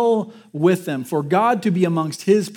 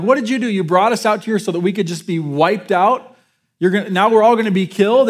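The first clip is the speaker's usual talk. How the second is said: mock panicked outcry, building louder and faster; panicked crowd; 4 dB louder than usual. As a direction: voice the frightened Israelites, rising to a near shout. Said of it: "they're kind of freaking out".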